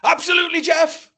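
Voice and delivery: loud, high shout from the crowd; an eager audience member yelling. Retold or imitated. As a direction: call it out from the front row. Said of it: "She shouted out".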